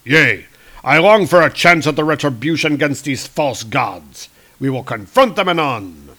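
loud, grand godly declaration; booming Thor. Retold or imitated. Thor vows revenge on false gods, loud and grand. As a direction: play Thor as a thundering hero. Thor voiced in comic retelling.

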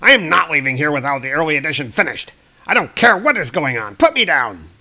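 loud, indignant yelling; angry shout. Retold or imitated. Jonah yells at cops evacuating him, loud and indignant. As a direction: demand to be put down, loud and furious. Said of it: "and he's like".

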